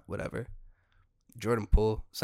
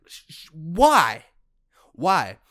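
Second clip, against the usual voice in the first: exasperated; 6 semitones higher, 12 dB louder, much slower than usual. Real, not acted. Baffled at Mahomes.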